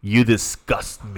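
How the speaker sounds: slow, cold English put-down; cold classmate quote. Retold or imitated. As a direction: deliver it slowly, as a public snub. Y viene y dice.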